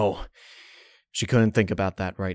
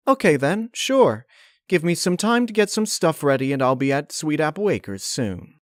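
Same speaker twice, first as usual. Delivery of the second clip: put-on higher, bright young mare; Twilight voice; 7 semitones higher than usual. Twilight agreeing to come to Sweet Apple Acres, bright and higher.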